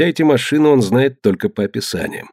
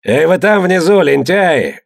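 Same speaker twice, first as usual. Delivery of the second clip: roaring; 6 semitones higher, slower than usual. A narrator's reading. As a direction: roar it down below. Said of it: "взревел Тьор".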